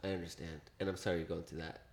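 soft, low, sympathetic quote; gentle sympathy. Retold or imitated. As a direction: voice a partner tenderly consoling. Retelling partner's gentle sympathy.

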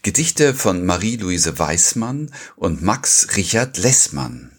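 slow, measured title read; podcast intro, unhurried and deliberate; episode title announcement. Real, not acted. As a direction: announce the poets and theme in measured phrases.

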